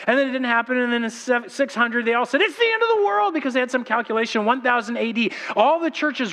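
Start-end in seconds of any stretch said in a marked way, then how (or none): 2.4-3.3 high mock-alarmed cry; mock panic. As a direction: ham up the panicked prophet. They all said.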